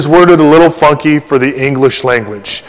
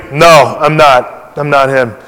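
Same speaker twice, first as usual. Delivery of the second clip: blank denial; 2 semitones lower than usual. Retold or imitated. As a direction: deny it blankly, dropping off at the end. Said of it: "John says blankly".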